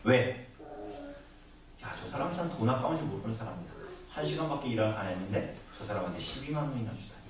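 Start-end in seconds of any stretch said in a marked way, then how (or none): 1.8-7.2 scoffing aside. Retold or imitated. Onlooker scoffing at the master.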